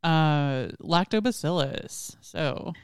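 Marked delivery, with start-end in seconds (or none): 0.8-2.2 put-on Valley girl voice. Shown as a demonstration. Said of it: "You just say it like a Valley girl".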